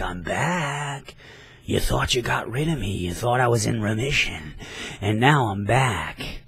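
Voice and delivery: mildly mocking villain's gloat; taunting. Tumor character taunting his victim Rory, mildly taunting. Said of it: "He's taunting Rory".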